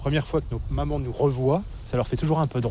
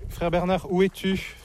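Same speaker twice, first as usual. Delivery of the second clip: raised, higher call across the grounds; 5 semitones higher than usual. Real, not acted. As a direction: call his name out to find him. Calls out for brother in abbey. (appel lancé à voix haute)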